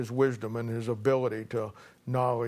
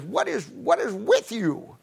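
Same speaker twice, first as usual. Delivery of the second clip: exasperated; 8 semitones higher, slower than usual. Retold or imitated. Kid confronting old man.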